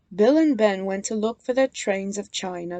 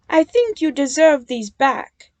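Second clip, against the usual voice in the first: puffed; 5 semitones higher, 6 dB louder than usual. A narrator's reading. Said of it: "puffed Nia".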